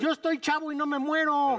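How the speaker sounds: a touch of mocking bravado; dismissive youngster. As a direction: lightly imitate a young person who feels invincible. Voices careless youth refusing masks.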